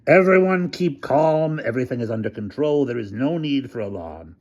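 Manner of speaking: calm a crowd over a megaphone; booming megaphone. A narrator's reading. Hamilton booming over the megaphone to the campus. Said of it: "Hamilton's voice boomed".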